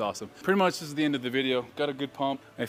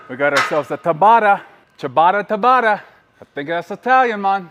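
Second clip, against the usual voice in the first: hyped up; 6 semitones higher, 7 dB louder than usual. Real, not acted. Excited burnout announcement.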